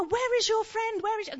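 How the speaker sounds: mock angry shout. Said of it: "shouting at her".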